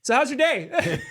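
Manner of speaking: laughing small talk. Retold or imitated. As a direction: ask it while laughing. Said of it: "I was like".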